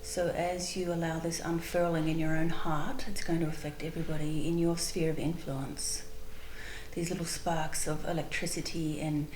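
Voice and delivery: calm, unhurried guided visualization with long pauses; spontaneous meditation leading, measured and spacious. Real, not acted. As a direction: guide listeners gently inward, pausing between phrases.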